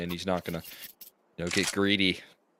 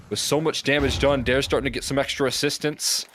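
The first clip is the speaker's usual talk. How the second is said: excited play-by-play; 5 semitones higher than usual. Real, not acted. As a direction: call the fight with growing excitement. Caster hyping a clutch fight.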